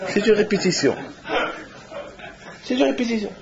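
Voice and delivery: laughing retell. Retold or imitated. Retells telling the host "a rehearsal.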